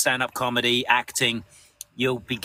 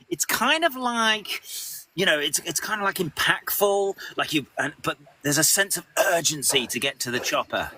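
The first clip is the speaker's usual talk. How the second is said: gentle director. Retold or imitated. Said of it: "very gently around that".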